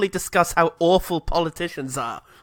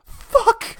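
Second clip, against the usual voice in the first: mock yell. Mock Anakin crying.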